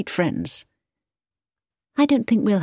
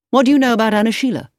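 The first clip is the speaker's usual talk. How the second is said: urgent; 5 semitones higher, 5 dB louder, much faster than usual. A narrator's reading. Edward grabs her arm urgently.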